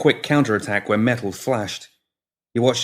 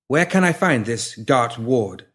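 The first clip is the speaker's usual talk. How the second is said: slow, lightly voiced cold killer; 3 semitones higher, slower than usual. The woman asks calmly.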